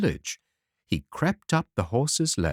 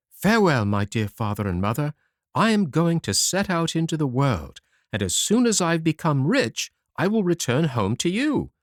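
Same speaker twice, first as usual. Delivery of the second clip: higher, lightly voiced little boy; a small son standing firm, voice raised; determined little hazelnut boy, higher; tiny son's voice; 5 semitones higher than usual. Son bids parents farewell.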